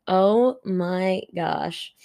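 mock-stunned, drawn out very slowly; slow-motion dawning horror, lightly acted; stunned realization. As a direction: stretch each word in retold disbelief. Coworker's wide-eyed reaction, retold.

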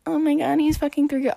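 high, loud outraged squeal of a quote; mock freakout. Acts out a jealous girl's freakout.

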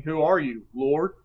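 a mild lean on "are", voice mostly plain; stress on ARE. Shown as a demonstration. Class member recalls the emphasis point, mild stress on "are". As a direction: lightly press "are" and let "Lord" rise. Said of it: "if we were to change the emphasis".

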